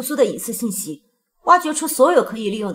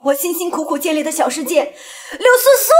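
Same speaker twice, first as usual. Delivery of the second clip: laughing through a bitter grudge; villainous laugh; 4 semitones higher than usual. Acted. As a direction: sneer it with a cold laugh. Villain seething over ruined world.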